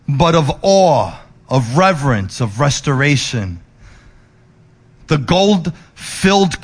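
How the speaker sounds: hushed reverent preaching. Acted. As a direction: let it land with awe. Soft reflective close.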